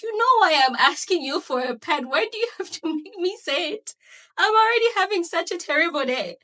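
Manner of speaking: loud, frustrated pleading; mock exasperated whine; exasperated plea. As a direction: push back in annoyance. Retelling her frustrated plea.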